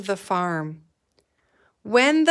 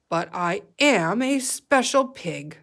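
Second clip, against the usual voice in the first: lightly voiced pig, content; a pig realizing he is special; proud pig voice. Gilbert voiced in story.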